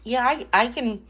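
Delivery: talking through a bite of ham; mouth full. Real, not acted. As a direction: speak around a mouthful. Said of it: "my mouth is still full of ham".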